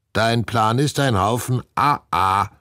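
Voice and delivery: high parrot croak. A narrator's reading. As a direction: squawk the insult like a parrot. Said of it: "krächzt Herr Klodwig". (hoch krächzend)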